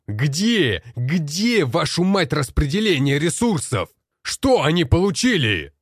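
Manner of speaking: enraged demand. Acted. Commander screams at the generals demanding the resources, enraged. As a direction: scream the questions in outrage.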